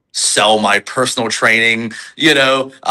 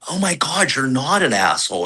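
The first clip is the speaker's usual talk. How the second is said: shocked; 5 semitones higher than usual. Retold or imitated. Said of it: "that shocked, wide eye".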